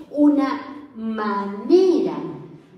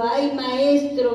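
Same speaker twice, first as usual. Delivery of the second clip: retold cry; slower than usual. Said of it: "gritó".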